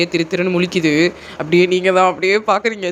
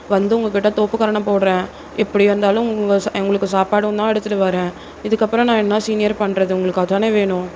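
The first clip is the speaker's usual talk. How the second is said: lightly voiced flustered junior girl; 2 semitones higher than usual. Junior girl denying to her senior that she avoids him, mildly flustered. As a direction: protest meekly to a senior.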